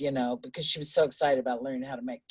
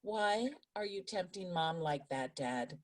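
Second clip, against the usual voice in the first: laughing; 4 semitones higher, 5 dB quieter than usual. Retold or imitated. Daughter scolding dad, retold laughing.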